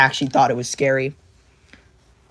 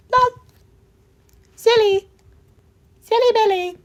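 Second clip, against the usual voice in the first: very high, louder cartoon squeak; squeaky silly; 5 dB louder than usual. Teasing the character, high cartoon voice. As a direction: squeak it out like a toy.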